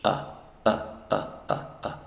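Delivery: "a" as short English "uh"; brief separate "a" sounds, each a quick "uh". Shown as a demonstration. Teacher drills the short U, "a" repeated as "uh". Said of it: "el sonido de la U corta".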